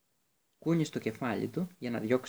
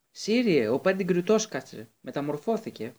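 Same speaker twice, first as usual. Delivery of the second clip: high, loud urgent call; boy shouting a warning to his godfather; 5 semitones higher, 5 dB louder than usual. A narrator's reading. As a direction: yell the warning across the grounds. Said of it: "φώναξε ο, ο Χάρη".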